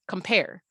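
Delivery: "compare" with a short COM before the P; first syllable cut off. Shown as a demonstration. Teacher showing the stressed last syllable, "compare" stressed on PARE. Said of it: "it's getting cut off for the P".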